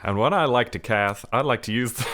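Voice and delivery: put-on American announcer accent; fighting game announcer. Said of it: "announcer voice for my American".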